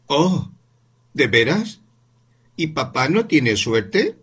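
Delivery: niño mucho más agudo, pregunta lenta; niño sorprendido. Acted. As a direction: asombro infantil. Voz del niño Paul. (niño preguntando por su papá, muy agudo)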